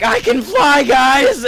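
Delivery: high, loud mock-delirious shout; elated yell. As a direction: call out in giddy triumph. Deluded Seagull calls to friends.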